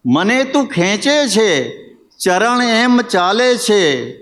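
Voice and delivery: lilting verse delivery with phrases set apart by pauses; ghazal recitation. Acted. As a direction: recite each line, then lift it on the repeat. Poet recites own ghazal.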